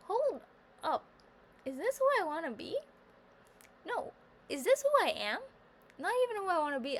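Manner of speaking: hammed-up shocked self-talk; mock self-reckoning. Talking to herself in the mirror about her eyebrows, in a high mock-dramatic voice. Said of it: "And I was like".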